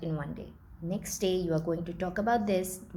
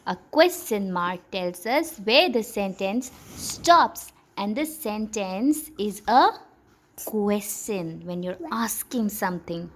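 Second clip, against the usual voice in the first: slow, louder explaining voice; slow teaching voice; 4 dB louder than usual. Shown as a demonstration. Teacher explaining to the child, slow and clear. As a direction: spell it out slowly for a child. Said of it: "teacher slow model reading".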